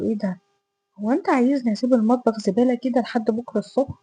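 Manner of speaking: mildly incredulous retold question; puzzled surprise. Woman asking Ahmed about the messy kitchen, mildly surprised. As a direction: retell a baffled objection, pitch jumping briefly early on. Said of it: "فبصيت له كده باستغراب".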